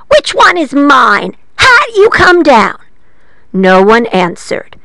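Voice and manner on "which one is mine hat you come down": a touch higher, slow witch voice calling; witch calling her hat. A narrator's reading. Witch calls up to her hat, mildly pleading. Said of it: "she said".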